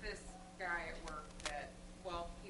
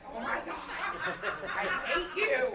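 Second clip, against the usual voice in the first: louder, slow laughing mock hatred; mock exasperated groan; 10 semitones higher, 13 dB louder than usual. Woman retelling her annoying coworker, laughing exasperation.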